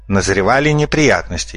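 plain reading voice

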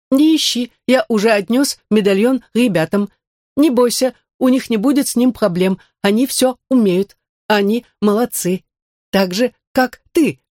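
lightly voiced android. Android Max reassures. (голос андроида)

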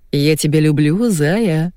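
quick eager reassurance, rise on люблю; hasty reassurance. Acted. Husband hastily assuring wife, eager rising люблю. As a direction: hurry to reassure her with люблю. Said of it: "поспешил заверить Костя".

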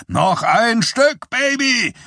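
high, stretched-out yell of encouragement; loud cheering on. A narrator's reading. Teenagers urging on the slowing wheel, loud cheering. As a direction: egg the wheel on at full voice. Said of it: "mit lauten Zurufen anfeuern".

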